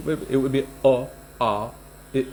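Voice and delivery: o, a, i said with an O-tint; rounded vowels demo. Shown as a demonstration. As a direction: show the vowels with rounded lips. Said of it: "like this".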